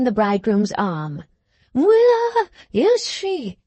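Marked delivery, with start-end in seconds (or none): 1.7-3.6 very high, slow, desperate cry; frantic cry. A narrator's reading. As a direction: beg for news of the child. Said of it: "cried this lady".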